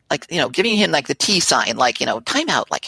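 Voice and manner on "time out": high mock time-out call; retold urgent plea. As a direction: interject with a higher, urgent voice. Retold urgent interruption of boss.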